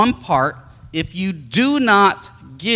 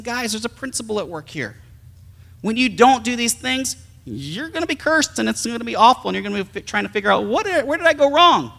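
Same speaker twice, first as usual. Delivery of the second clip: gentle explanation; 6 semitones higher than usual. Retold or imitated. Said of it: "He's saying".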